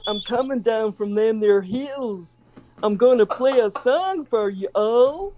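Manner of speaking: lightly put-on Southern American twang; hillbilly American accent. Shown as a demonstration. Scottish guest hams up a hill-country American accent for the host. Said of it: "do your American accent".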